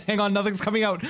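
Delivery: laughing at failed voice. Real, not acted. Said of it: "deepest voice that I can".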